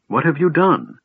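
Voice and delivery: high, alarmed, piercing cry; shrill cry. A narrator's reading. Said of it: "the shrill sound of her voice".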